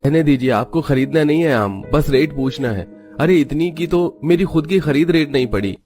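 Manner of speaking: a touch of irritation from a fruit seller; understated vendor's annoyance; mildly annoyed refusal. Acted. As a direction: turn the haggler away, mildly cross. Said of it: "Pramod गुस्सा करके बेचने से मना कर देता है".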